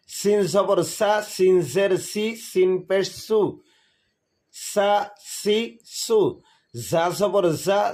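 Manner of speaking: steady teacher's chant of letter, vowel mark and sound; qaida drill recital. Shown as a demonstration. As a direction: recite each letter's vowels for students to repeat. (শিক্ষকের সুরে কায়দা পাঠ)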